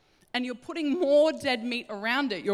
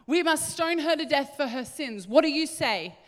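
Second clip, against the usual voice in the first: higher, insistent Pharisee voice; demanding accusers; 5 semitones higher than usual. Acted. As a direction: press for an answer, pitched up. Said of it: "they're demanding more".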